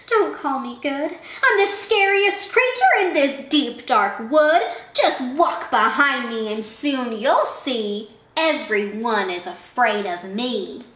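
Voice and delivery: a hint of a bragging little mouse; lightly voiced boastful mouse. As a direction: start big, then slow down confidently.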